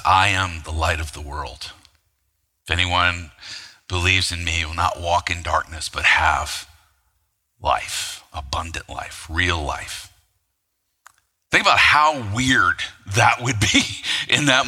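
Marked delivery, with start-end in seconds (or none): 0.1-10.1 confident, reassuring. Pretend. Voice over the speakers after fireworks, confident and reassuring. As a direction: reassure the whole city gently, unhurried. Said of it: "it's very confident and very reassuring".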